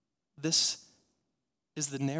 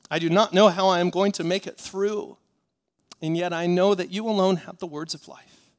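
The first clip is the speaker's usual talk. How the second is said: loud preacher's plea; impassioned preaching; 3 semitones higher, 8 dB louder than usual. Acted. Disciple confessing to the Lord, impassioned preaching. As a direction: voice a hurting disciple's plea, loudly.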